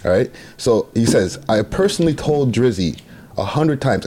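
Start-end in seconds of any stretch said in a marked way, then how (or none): 1.5-4.0 statement read out with emphasis; deliberate, emphatic read-aloud; dramatic reading. Shown as a demonstration. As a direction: read it out like a proclamation. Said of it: "I did the dramatic reading".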